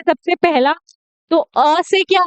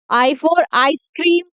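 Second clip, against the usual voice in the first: slow letter demo; much slower than usual. Shown as a demonstration. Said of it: "slow phonics demo".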